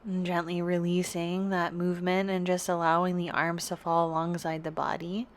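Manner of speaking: calm, unhurried yoga teacher guidance; guided yoga meditation. Real, not acted. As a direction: guide them gently into rest, with long pauses between phrases. Leads a restorative yoga meditation.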